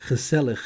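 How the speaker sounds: gezellig with a throaty Dutch g, xuh-ZEL-ig; Dutch pronunciation. Shown as a demonstration. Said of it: "A nice Dutch word".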